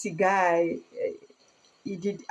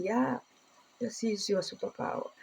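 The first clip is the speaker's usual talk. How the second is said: God's reply; 2 semitones higher, 7 dB quieter than usual. Retold or imitated. Voicing God's answer.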